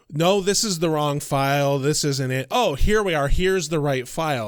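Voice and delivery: imitating someone narrating aloud to themselves; conversational level. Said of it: "she's talking at a conversational level".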